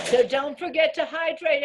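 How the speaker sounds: muffled, mic covered; talking through a covered mic; finger over the mic. Real, not acted. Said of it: "I think you're covering your microphone".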